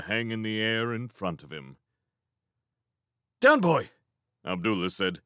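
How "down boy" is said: sharp, high, loud order to a dog; raised-voice command; calling out a command. Acted.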